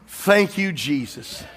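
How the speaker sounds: fading into a hushed Jesus; grateful whisper. Retold or imitated. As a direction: breathe thanks, trailing to a hush. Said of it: "your first breath should have been".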